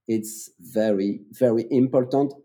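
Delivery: langzaam en zachter, elk woord apart; slow, calm emphasis. Shown as a demonstration. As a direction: laat het belang bezinken door te vertragen. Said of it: "Slowly, please, slowly".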